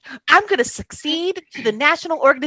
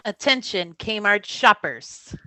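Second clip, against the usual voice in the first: store announcer; 7 semitones lower, 9 dB quieter than usual. Acted. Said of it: "The Kmart announcer says".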